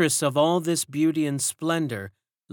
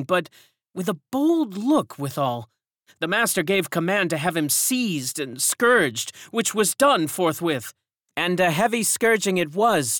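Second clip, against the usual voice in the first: put-on raised, knowing old woman's voice; old servant woman; 7 semitones higher, 4 dB louder than usual. A narrator's reading. Old servant hints at secrets, raised and knowing. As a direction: speak as one who knows more.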